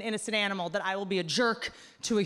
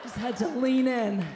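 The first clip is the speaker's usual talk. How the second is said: laughing; 2 semitones higher, 4 dB louder, slower than usual. Acted. Punchline, committing to the mistake.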